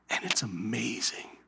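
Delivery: hushed whisper, slowed; whispered awe. Acted. Pastor voicing God, whispering affirmation.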